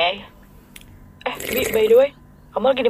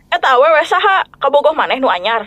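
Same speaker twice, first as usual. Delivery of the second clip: angry Sundanese. Acted. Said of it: "jadi harus pakai bahasa Bandung".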